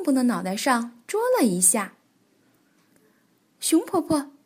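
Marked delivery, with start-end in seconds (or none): 3.6-4.3 higher, joyful call of a name; happy shout. Acted. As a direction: cry out gladly. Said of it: "蹦蹦高兴地叫道".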